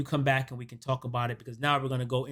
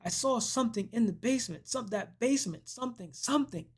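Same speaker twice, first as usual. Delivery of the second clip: high, softer panicky babble; hammed-up panic, pitched up without shouting; mock frantic; 7 semitones higher, 4 dB quieter than usual. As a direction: imitate her frantic report. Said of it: "She's frantic".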